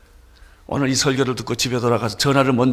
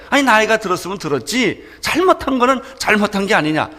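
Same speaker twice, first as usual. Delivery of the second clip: put-on angry young man; 6 semitones higher than usual. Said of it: "더 화가 난 거예요".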